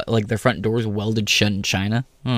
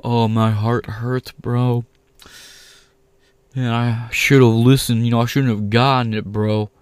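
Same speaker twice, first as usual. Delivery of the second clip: mock whiny friend. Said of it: "baiting for sympathy".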